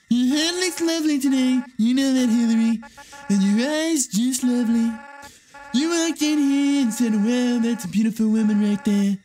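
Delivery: Trump voice. Acted. Game Trump flattering Hillary, brash loud impression. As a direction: puff up like a boastful president. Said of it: "my Trump voice is too good".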